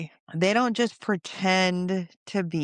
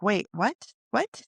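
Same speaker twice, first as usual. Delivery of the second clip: confused; 4 semitones higher than usual. Retold or imitated. Mom confused by daughter.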